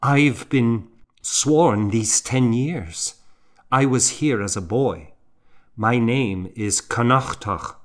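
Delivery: lightly stern, a bit proud; stern reply. Acted. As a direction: answer back firmly, without raising the voice much. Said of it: "he replied sternly".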